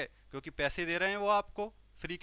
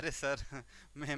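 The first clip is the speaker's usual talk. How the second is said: laughing while talking; 4 dB quieter than usual. Acted. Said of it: "हंसते हंसते बोलते हैं".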